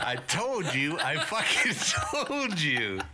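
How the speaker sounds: high, drawn-out "told you" through laughter; triumphant and laughing; laughing gloat. Real, not acted. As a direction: crow that you were right. Vindicated by the search result.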